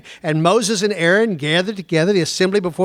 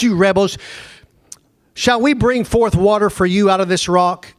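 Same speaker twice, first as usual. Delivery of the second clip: angry Moses; 4 dB louder than usual. Acted. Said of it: "Moses uses the word rebel and he's set off".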